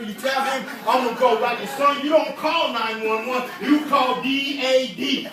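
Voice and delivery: loud mock tough-dad rant; fired-up protective dad. Father riled over his son's trouble, loud comic bluster. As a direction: rant like a dad ready for a fight. Protective dad's threats, retold.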